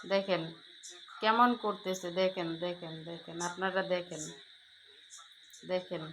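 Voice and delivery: soft, hushed pointing out. Real, not acted. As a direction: keep it down so the pet isn't startled. Quietly pointing out the pet. (চুপিচুপি নিচু গলায় দেখানো)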